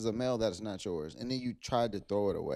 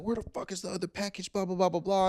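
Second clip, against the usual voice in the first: higher, imitating an angry mom; pissed off; 8 semitones higher than usual. Mom demanding the other package, mock angry higher outburst. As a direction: mimic a mother snapping about the missing package. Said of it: "she's getting pissed off".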